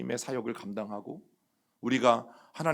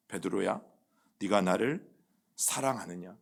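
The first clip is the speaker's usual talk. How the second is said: tender question; 4 semitones lower, 4 dB quieter than usual. Acted. The Lord gently asks Peter.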